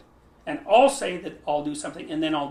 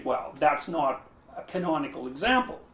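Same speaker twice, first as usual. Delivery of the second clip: imagined objector; 2 semitones lower than usual. Retold or imitated.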